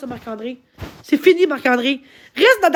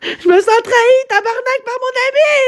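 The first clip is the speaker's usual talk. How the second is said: crying out; 3 semitones higher than usual. Real, not acted. Streamer betrayed by her friend, crying out. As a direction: shout the betrayal through tears. Betrayed, yelling through tears.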